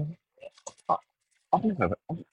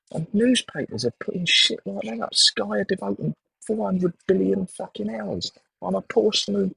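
heated rant; 10 semitones higher than usual. Real, not acted. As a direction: blow up over the newspaper coverage. Rant about Klopp coverage.

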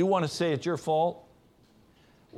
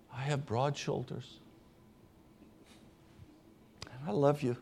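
quiet and gentle; 4 semitones lower, 8 dB quieter than usual. Retold or imitated. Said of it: "he would say very quietly and gently back to her".

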